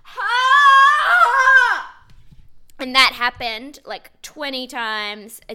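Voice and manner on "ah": loud high "Ah!" let out in a burst; mock primal shout. Imitating an actress letting a sound out, loud. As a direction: release a sound from the gut. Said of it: "say one of the women on stage would be like".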